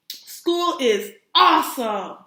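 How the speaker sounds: loud, slow excited shout; big excited classroom shout. Acted. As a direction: boom it out like an eager shark. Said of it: "shouted Clark the Shark".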